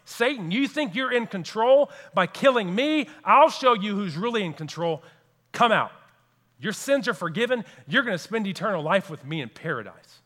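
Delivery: a hint of Jesus taunting Satan; defiant Jesus.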